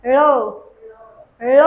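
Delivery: ळ with the tongue curled back, a retroflex la; correct letter. Shown as a demonstration. Teacher correcting students: it is ळ. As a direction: say it as ळ, not र or ल. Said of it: "ते ळ आहे".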